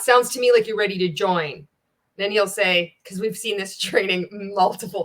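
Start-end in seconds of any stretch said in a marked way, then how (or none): 0.0-1.7 "join" brought down at the end, as a statement; downward tonality. Shown as a demonstration. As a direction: say "Sounds to me like you're ready to join" with a falling close. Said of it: "Notice the tone out".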